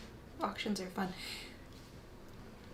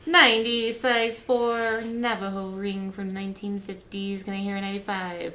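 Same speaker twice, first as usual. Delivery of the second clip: auctioneer; 4 dB louder than usual. Pretend. Calling bids as auctioneer.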